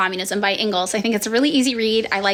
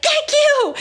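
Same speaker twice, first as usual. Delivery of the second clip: much higher, grateful burst; relieved thanks; 3 dB louder than usual. Retold or imitated. To boyfriend who packed the car, high relieved thanks. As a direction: sigh it out high like you're rescued.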